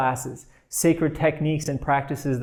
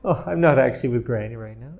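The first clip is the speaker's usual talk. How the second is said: laughing. Shown as a demonstration.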